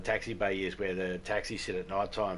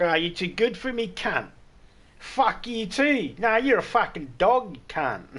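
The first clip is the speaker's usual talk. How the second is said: high, loud mock drunk yelling; drunk Aussie abuse; 8 semitones higher, 5 dB louder than usual. Rejected drunk yelling at a stranger, loud mocking voice. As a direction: ham up an offended drunk Aussie. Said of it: "that's when they're like".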